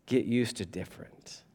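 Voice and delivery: quiet, calm reply. Retold or imitated. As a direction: say it gently, unbothered. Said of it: "Jesus just calmly turns to him and says".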